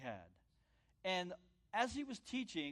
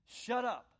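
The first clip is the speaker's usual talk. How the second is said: sharp order; 6 semitones higher, 5 dB louder than usual. Acted. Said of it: "He was saying".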